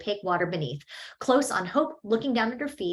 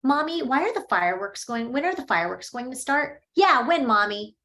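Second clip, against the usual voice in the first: put-on higher, louder whiny children's voices; impatient kids; 5 semitones higher, 5 dB louder than usual. The children pester Mommy about when the fireworks start, higher and louder.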